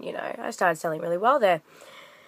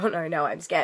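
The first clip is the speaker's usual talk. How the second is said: light teasing oh no no, friendly banter; playful mock fear; 4 semitones lower, 5 dB quieter than usual. Shown as a demonstration. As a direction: play along jokingly, not hostile. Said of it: "It was more like".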